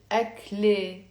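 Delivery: أكله ending in a breathed "-le-he", no T; wrong ending without T. Shown as a demonstration. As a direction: say أكله as "ak-le-he", T left silent. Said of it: "am I gonna pronounce it".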